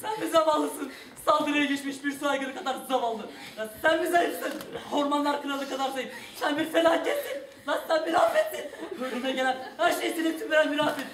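loud, furious tirade; angry rant. Acted. Banker rants at the woman. (kadına öfkeyle bağıran bankacı)

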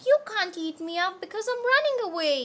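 lightly acted storybook refusal; mild defiance. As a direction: protest it for young listeners. Pancake defies cow, runs away.

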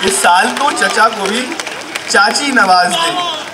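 comic plea in projected verse; emphatic Urdu poetry delivery; mushaira recitation. Acted. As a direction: declaim it like a prayer in rhyme. Recites comic prayer verse for uncle.

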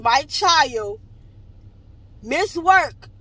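loud and indignant, stretching words out; heated rant. Real, not acted. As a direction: vent hard at the clinic's failure, voice up. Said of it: "I'm heated".

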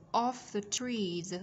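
slow "off the trees" with a voiced z closing "trees"; Z ending sound. Shown as a demonstration. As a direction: draw out "trees" into a clear z. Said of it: "Z ending sound". (đọc chậm "trees", rõ âm z cuối)

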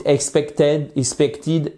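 "expected" with the stress misplaced; mispronunciation demo. Shown as a demonstration. Teacher shows learners what happens if they miss it, mispronounced. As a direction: say "expected" wrongly, without leaning on PEC. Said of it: "si vous loupez ça".

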